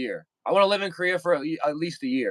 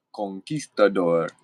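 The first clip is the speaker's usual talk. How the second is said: whispered; 9 semitones lower, slower than usual. Pretend. Whispered word after saying it.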